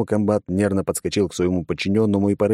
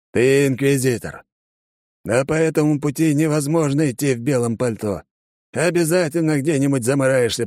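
a hint of an old commander lecturing; fatherly stern colonel; 7 semitones higher than usual. A narrator's reading. Colonel lecturing the young soldier, stern and fatherly. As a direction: talk sense into the boy.

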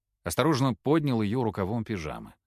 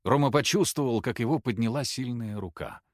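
usual speaking voice

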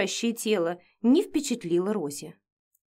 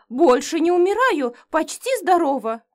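1 mumbled in fright; 7 semitones higher, 5 dB louder than usual. A narrator's reading. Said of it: "промямлила".

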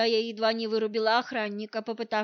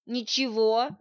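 grumbling; slower than usual. Acted. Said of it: "проворчала я".

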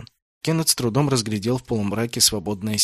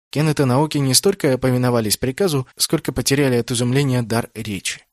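plain reading voice

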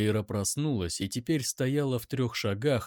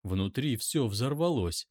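usual speaking voice

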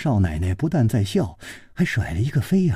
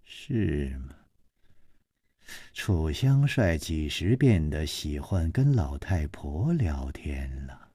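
low, sneering, whispered at the end; 9 semitones lower, 9 dB quieter, slower than usual. A narrator's reading. Madam Shi mocking Chu Liuxiang, cold sneer. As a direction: scoff at him with cold mockery. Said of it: "施少奶奶冷笑着说".

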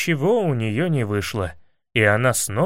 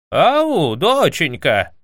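prince's voice; 4 dB louder, much slower than usual. A narrator's reading. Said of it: "голос князя".

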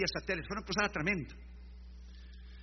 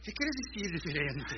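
Miami friend voice; 4 dB quieter than usual. Retold or imitated. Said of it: "como el amigo ahí de Miami".

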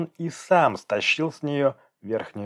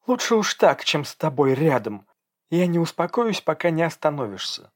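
defiant anger; 6 semitones higher than usual. Acted. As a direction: refuse to calm down. Angry girl fighting. (дерзко, высоко и громко)

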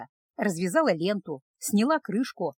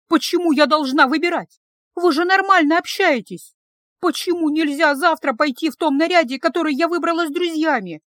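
put-on higher, louder frantic young woman; loud higher girlish desperation; desperate protest; 6 semitones higher, 5 dB louder than usual. A narrator's reading. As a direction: plead to not choose. Girl desperate in quarrel.

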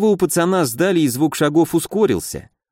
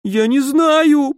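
much higher, slow whine; whining; 13 semitones higher, 3 dB louder, much slower than usual. A narrator's reading. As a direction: whimper it like a cornered kid. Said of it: "проныл Корс". (проныл, жалобно и медленно)

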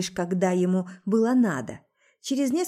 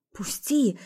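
ordinary delivery

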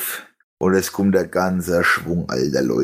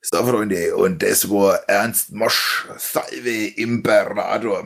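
lightly imitated bandleader, drawing out the title; slow, stretched-out stage announcement, lightly put on; bandleader's announcement; much slower than usual. Bandleader closing the number for the tent, slow mock announcement. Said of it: "der, der Kapellmeister".

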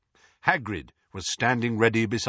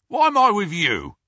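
a louder, higher indignant grunt; grunted protest; 11 semitones higher, 8 dB louder than usual. A narrator's reading. Mundungus grumbling at Moody about his partner. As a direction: complain like a shifty crook. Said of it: "grunted the Harry nearest the back door".

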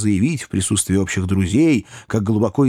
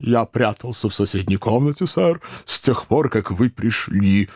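Snodgrass. A narrator's reading. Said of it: "пояснил мистер Снодгресс".

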